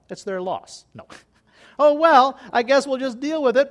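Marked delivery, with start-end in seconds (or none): 1.8-3.7 mock resignation. Mock resigned shrug, loud.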